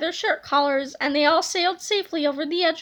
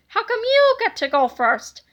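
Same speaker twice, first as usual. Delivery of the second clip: put-on higher, indignant kid's question; whiny complaint; 6 semitones higher, 4 dB louder than usual. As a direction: protest that it isn't fair. Younger twin complains.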